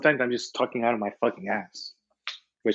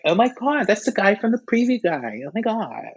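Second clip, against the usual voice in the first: excited fan; 8 semitones higher than usual. Retold or imitated.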